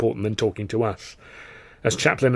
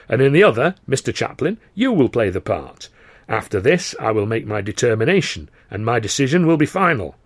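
lightly voiced, firm theatre boss; a hint of the impresario laying down rules; slightly louder, measured announcement voice; commanding governor; 3 dB louder than usual. Carno lays out the contest.

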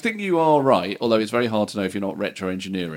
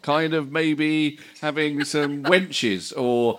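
surprised record boss; 3 semitones higher, slower than usual. Pretend. Record boss probing band plans.

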